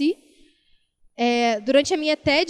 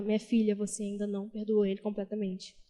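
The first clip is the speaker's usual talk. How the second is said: lower, softer, gently correcting voice of God; lightly voiced God, lower and soft; voice of the Lord; 3 semitones lower, 6 dB quieter than usual. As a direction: speak as a lightly voiced loving Lord rebuking his daughter. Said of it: "o Senhor foi confrontando ela".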